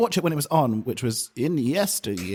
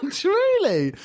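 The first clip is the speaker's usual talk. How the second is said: high giggling through words; laughing; 12 semitones higher than usual. Real, not acted. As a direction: laugh while you say it. Laughing while telling.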